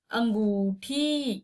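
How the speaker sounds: अंगूठी slow with nasal अं; slow nasal angoothi. Shown as a demonstration. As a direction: stretch अंगूठी, nasal first vowel. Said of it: "अंगूठी बोलेंगे क्या हम लोग?". (धीमे, नाक से अंगूठी)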